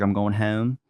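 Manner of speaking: Baltimore "home" with a fronted long o; demonstrating a native Baltimore accent. Shown as a demonstration. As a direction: slip into a light Baltimore twang on "home". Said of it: "Some people pick it up. It's mostly when I say things like".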